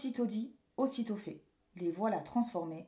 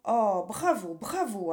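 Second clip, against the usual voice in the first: put-on mildly cheering child; applauding; 2 semitones higher, 7 dB louder, slower than usual. Boy applauds the witches' insults, cheering. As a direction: give a light bravo, stressed at first. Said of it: "applaudit Pierre".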